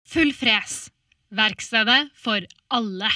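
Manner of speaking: loud, punchy car shop ad; energetic radio ad. Shown as a demonstration. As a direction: sell it hard and upbeat. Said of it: "her kommer en stemmeprøve".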